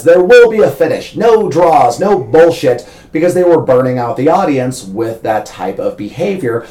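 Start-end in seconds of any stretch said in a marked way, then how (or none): 0.0-2.8 promo announcer. Retold or imitated. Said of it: "it was always advertised as".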